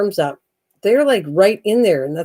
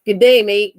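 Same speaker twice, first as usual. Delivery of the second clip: put-on Australian accent; 4 dB louder than usual. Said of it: "How do you say that in Australia?".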